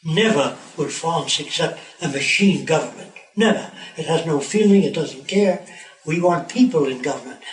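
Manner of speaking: put-on mildly angry French-accented protest; indignant refusal in a light French accent. French prime minister rejecting the plan at the U N, angry French accent. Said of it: "in a heavy French accent, angrily".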